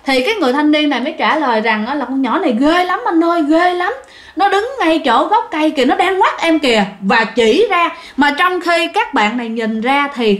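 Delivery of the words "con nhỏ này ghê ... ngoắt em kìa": high, frightened insisting; terrified. Retold or imitated. Mason pleading with the officer, high frightened voice. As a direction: point and plead in panic.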